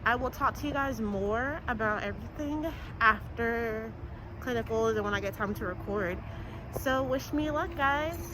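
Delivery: muffled behind a mask; talking through a mask; through a face mask. Real, not acted. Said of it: "I hope you can hear me with my mask on".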